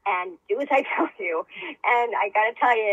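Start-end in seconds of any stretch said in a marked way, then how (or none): 0.1-1.5 commanding inner voice. Retold or imitated. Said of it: "then it was commanding".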